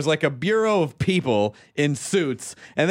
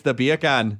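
"beer can" sounding like Jamaican "bacon"; Jamaican accent; 3 semitones lower than usual. Shown as a demonstration. Host repeating the trick, "beer can" in Jamaican accent. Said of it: "beer can is bacon in Jamaican".

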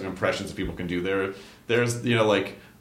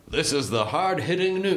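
mock hard-hitting reporter, pitched up; hard-hitting news cadence; 5 semitones higher than usual. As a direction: imitate a news show's punchy cadence. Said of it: "there's a certain cadence".

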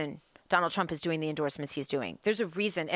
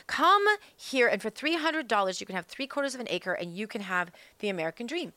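mock ad pitch; 3 semitones higher than usual. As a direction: sell it like a radio ad. Mock ad quote.

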